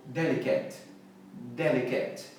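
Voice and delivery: "Delicate" as DEL-i-ket; correct pronunciation. Shown as a demonstration. Teacher repeats for learners, "Delicate" correctly ending in KET. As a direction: keep the last vowel of "Delicate" short. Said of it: "e não delicate".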